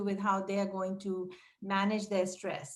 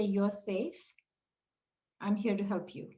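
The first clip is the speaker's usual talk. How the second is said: gentle, soft reassurance; calm a scared child softly. Shown as a demonstration. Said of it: "In a soft tone, just say".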